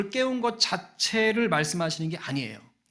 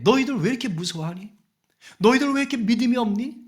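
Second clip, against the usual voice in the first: lightly exasperated questioning, building to the second; understated scolding; mild acted rebuke; 4 semitones higher, 4 dB louder, faster than usual. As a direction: chide them, a touch more forceful as it goes. Acts out Jesus questioning disciples.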